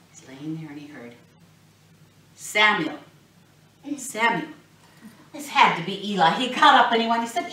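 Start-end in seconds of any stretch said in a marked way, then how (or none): 2.4-4.5 calling out. Acted. God calling twice.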